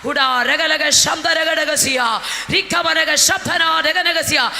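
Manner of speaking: slow, loud ecstatic tongues; speaking in tongues. Acted. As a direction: pour out the syllables slowly in fervour. Speaking in tongues mid-sermon. (ഉച്ചത്തിൽ പതുക്കെ അന്യഭാഷ)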